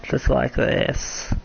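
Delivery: slow, voiceless, cracked; tired voice crack. Real, not acted. Streamer showing how tiredness affects the voice, cracking. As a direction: let the tired voice give out slowly. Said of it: "my voice cracks a lot when I'm tired".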